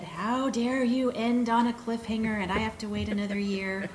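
mildly indignant imitation of a fan; mock outrage, quoting an aggrieved reader; irate fan. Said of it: "irate fan".

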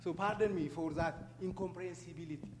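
heavy Ethiopian accent in English; English spoken with an Ethiopian accent. Real, not acted. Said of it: "I have a heavy Ethiopian accent".

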